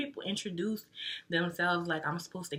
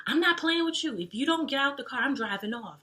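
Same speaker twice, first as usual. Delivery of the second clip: high, louder imitation of a friend's warning; serious friend; 9 semitones higher, 4 dB louder than usual. Friend warns drunk guy to leave her car, imitated serious high-pitched warning. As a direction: put on a high-pitched, no-nonsense threat. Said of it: "she was so serious".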